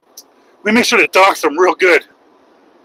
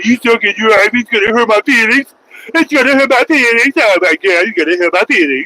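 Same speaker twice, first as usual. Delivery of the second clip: mocking whiny commenter; 2 semitones higher than usual. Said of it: "You think that you come in and say".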